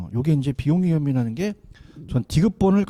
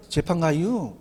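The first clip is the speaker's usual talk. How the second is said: Chungcheong accent; 3 dB quieter, slower than usual. Shown as a demonstration. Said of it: "그 사투리가 끝을 좀 올려야 돼".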